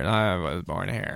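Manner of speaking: slow droll American drawl; drawling influencer voice. Retold or imitated. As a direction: drag it out like an influencer. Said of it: "they do that drolly".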